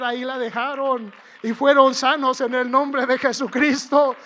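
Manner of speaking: loud, exclaiming preacher; preaching at full force. Real, not acted. Preacher proclaiming the lepers' healing, preaching loudly.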